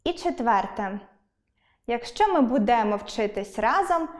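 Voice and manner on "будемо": «будемо» with the stress on DE; bu-DE-mo, stress the middle of «будемо»; wrong stress. Shown as a demonstration. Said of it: "а не будемо".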